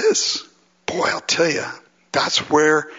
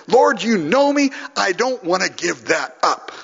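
honest plea; 5 semitones higher than usual. Acted. Acting out honest prayer to God.

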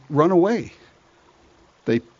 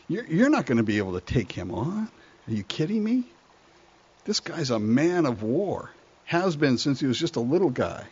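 doubting King Saul; 6 dB quieter than usual. Acted. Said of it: "And Saul says to David".

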